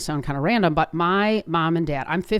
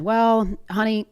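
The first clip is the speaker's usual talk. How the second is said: higher, slow, gentle retelling of mom; imitating a calm mother, pitched up; 4 semitones higher, slower than usual. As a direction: break it gently to your child, slowly. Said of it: "she very calmly said".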